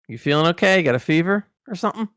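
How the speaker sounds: retold suspicious concern; puzzled concern. Acting out puzzled question to Shatner.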